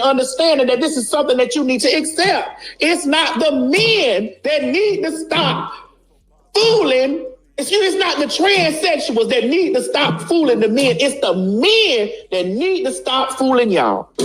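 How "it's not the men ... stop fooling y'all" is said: higher, laughing through the repeat; laughing restatement. Real, not acted. To viewers, laughing as she repeats her point. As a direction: laugh while hammering the point home. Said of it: "I'ma turn around again".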